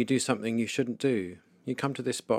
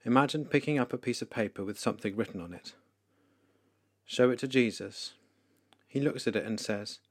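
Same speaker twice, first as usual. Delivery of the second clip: ordinary talk, nothing marked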